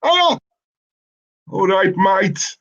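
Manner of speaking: high, drawn-out mock Scouse; attempted Scouse accent. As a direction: have a bad go at a Scouse accent. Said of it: "I've developed a Scouse accent".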